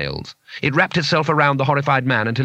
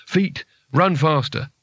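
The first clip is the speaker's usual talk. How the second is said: slow, woozy command; slurred; 3 semitones higher, slower than usual. Acted. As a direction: order it slowly, as if drunk. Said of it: "slurred Rincewind".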